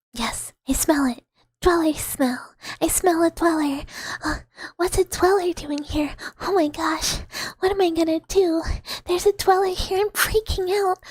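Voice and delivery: building fake alarm at a scent; hammed-up panic. Streamer plays panic at smelling a dweller, loud mock alarm.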